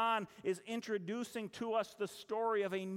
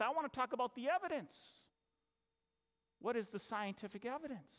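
very politely. Retold or imitated. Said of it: "I just said very politely".

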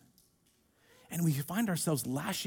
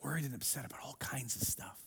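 whisper; 6 semitones lower, 14 dB quieter than usual. Real, not acted. Repeating Jesus's words to the room.

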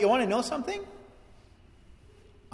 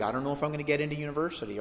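worried student; 5 dB quieter, much faster than usual. Retold or imitated. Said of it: "we're worried".

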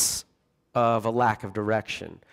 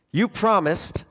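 put-on high childish plea; lightly whiny kid; attention-seeking child; 9 semitones higher, 4 dB louder than usual. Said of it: "He is talking like a needy child".

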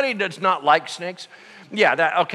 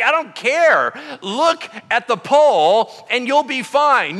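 louder, higher, slow and insistent order; stubborn insistence; 6 semitones higher, 5 dB louder, slower than usual. Retold or imitated. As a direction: lay down the law, slowly. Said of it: "He's like".

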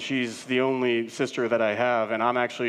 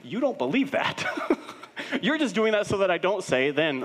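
laughing; 8 semitones higher, 3 dB louder than usual. Real, not acted. Laughing at his kids' act.

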